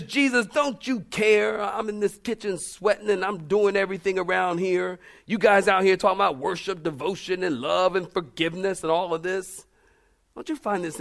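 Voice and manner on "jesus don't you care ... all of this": mildly hammed-up frazzled Martha rebuking Jesus; irritated Martha. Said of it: "And she says".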